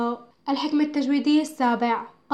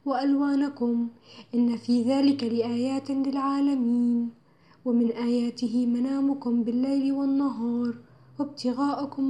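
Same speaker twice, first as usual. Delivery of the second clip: careful Quran recitation. Shown as a demonstration. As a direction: recite the verses with precise, held vowels. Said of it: "أتلو بإتقان".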